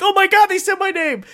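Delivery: high, loud thrilled squeal; excited squeal. Retold or imitated. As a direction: freak out with excitement. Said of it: "I'm like".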